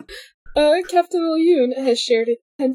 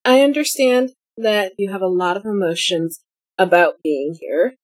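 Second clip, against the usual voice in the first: calm reassuring Raba; 6 semitones lower than usual. Acted. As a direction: soothe him like a counselor. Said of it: "Raba looks at Olyun and says".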